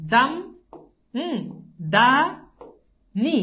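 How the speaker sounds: জাম, দা, নি spoken as separate beats with pauses; split into syllables. Shown as a demonstration. Teacher to class, counting syllables, syllable by syllable. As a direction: tap out each syllable. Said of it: "এটা দেখেন".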